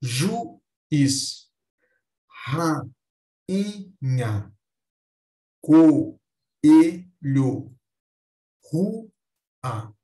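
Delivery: "Juiz, rainha, coelho, rua" split between the vowels with clear pauses; hiato. Shown as a demonstration. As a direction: break them apart, "Ju-iz, ra-inha, co-elho, ru-a". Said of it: "cada qual fica em sílabas diferentes". ("Juiz, rainha, coelho, rua" pausados, vogais em sílabas separadas)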